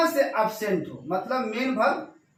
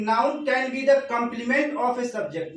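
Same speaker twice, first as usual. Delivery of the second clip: slow reading out; much slower than usual. Shown as a demonstration. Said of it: "यहाँ पे देखिए".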